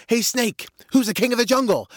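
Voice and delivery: high-pitched challenge from a cocky lion; lion's high, punchy demand; boastful lion. Acted. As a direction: demand it like a boastful jungle king. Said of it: "He says".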